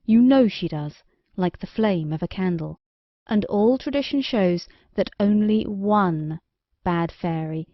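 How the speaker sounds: lightly voiced stern king. King lays down the law.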